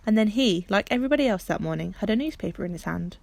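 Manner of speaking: plain reading voice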